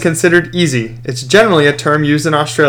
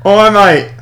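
put-on higher-pitched go at an Australian accent; tentative put-on Australian accent; attempted Australian accent; 4 semitones higher than usual. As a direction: try out an Aussie greeting accent. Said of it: "A K A Australian".

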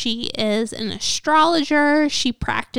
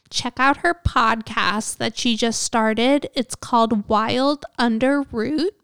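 cracking, strained voice. Real, not acted. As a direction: voice keeps breaking a little. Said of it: "my voice is, like, cracking".

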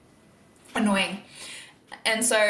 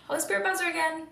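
excited amazement; 8 semitones higher, faster than usual. Real, not acted. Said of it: "My gosh, it's gone off".

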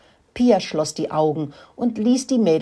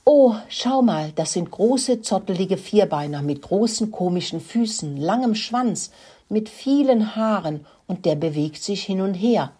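amazed; 4 semitones higher than usual. Acted. Murkelino marvels at the big ponies, amazed. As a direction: point at the huge animals in amazement. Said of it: "war so erstaunt".

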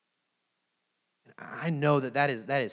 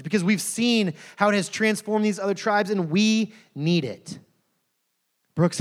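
pleading chief; 3 semitones higher, 6 dB louder than usual. Acted. Chief pleads with missionary Brooks.

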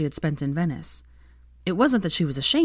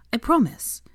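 whispered promise; 6 semitones higher than usual. Acted. Whispered reassurance to boyfriend.

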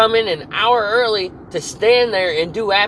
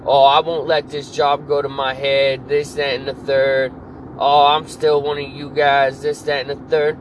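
sneering imitation, pitched lower; mock the boss's fake humility; mocking quote; 5 semitones lower than usual. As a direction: worker mocking his supervisor's promises, sneering. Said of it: "fucking told everybody".

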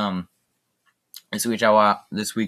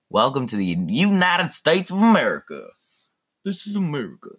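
hammed-up all-American proclamation; mock patriotic announcer; 4 semitones higher than usual. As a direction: proclaim it with mock national pride.

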